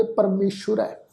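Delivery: ਪਰਮੇਸ਼ੁਰ with "sh" and short u; careful "shu" inside ਪਰਮੇਸ਼ੁਰ; dotted sha, short u. Shown as a demonstration. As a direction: say ਪਰਮੇਸ਼ੁਰ as "parmeshur". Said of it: "ਸੱਸੇ ਪੈਰ ਬਿੰਦੀ ਲਗਾ ਕੇ ਪਾਠ ਉਚਾਰਨ ਕਰਾਂਗੇ".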